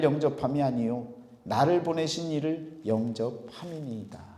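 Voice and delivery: measured reading from the pulpit; solemn, steady Bible reading; scripture reading. Real, not acted. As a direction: read the verse out in even, deliberate phrases. Reads scripture to congregation.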